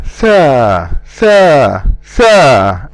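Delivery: tha with a light a vowel. Shown as a demonstration. Teacher modelling tha for learners. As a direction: say tha light, tongue resting. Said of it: "forming with an alif a tha".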